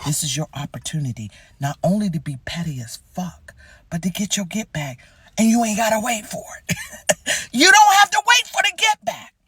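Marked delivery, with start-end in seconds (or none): 5.4-9.3 high, loud, giddy delight at revenge; squealing with glee; gleeful. Real, not acted. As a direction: crow over the chance for payback.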